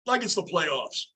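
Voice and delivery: talking with hiccups; hiccuping between words. Real, not acted. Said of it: "I got the hiccups".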